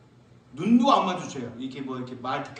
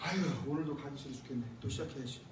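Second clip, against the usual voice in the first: fast, soft, muttered complaint; much softer reluctant mumble; reluctant grumble; 4 semitones lower, 10 dB quieter, faster than usual. Retold or imitated. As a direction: grumble under the breath.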